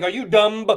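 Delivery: "dumb" with a quick, subtle B sounded at the end; subtle final B. Shown as a demonstration. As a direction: release a light B after the M in "dumb". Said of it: "they put just a very subtle B".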